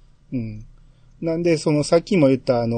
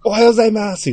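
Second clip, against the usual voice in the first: 高めで張りのある挨拶; 勢いよく元気に挨拶する; 元気な挨拶; 8 semitones higher, faster than usual. Retold or imitated. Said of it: "めちゃめちゃ元気に挨拶". (めちゃめちゃ元気な挨拶)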